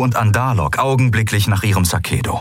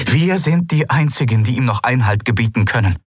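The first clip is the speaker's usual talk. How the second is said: energized; 5 semitones higher than usual. Acted. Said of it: "erklärte sie, von neuer Energie erfüllt".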